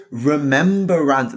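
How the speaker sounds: Remembrancer drawn out slowly, every syllable pressed; mocking the insistent crowd, slow Remembrancer; insistent pronunciation. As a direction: say Remembrancer slowly and firmly, as if correcting. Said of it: "everyone goes".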